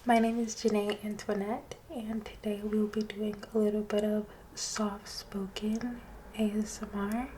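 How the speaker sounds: gentle half-whispered ASMR talk; soft-spoken ASMR. Real, not acted. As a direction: murmur softly to your listener. Soft-spoken ASMR intro throughout.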